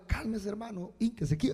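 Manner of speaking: softly coaxing someone to settle down; soothing. Acted. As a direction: gently hush an upset church brother. Pastor acts out soothing an upset brother.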